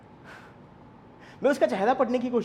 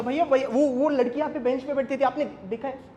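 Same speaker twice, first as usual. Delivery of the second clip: higher, urgent questioning with halting repeats; 5 semitones higher, 4 dB louder than usual. Acted. Asking the tea seller about the missing girl, urgently. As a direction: stumble into an urgent, worried question.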